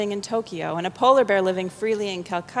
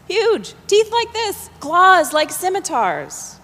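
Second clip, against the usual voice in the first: high, louder hammed-up awe; mock excited; 10 semitones higher, 5 dB louder, slower than usual. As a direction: play along with the tiger tale. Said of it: "Yes, yes".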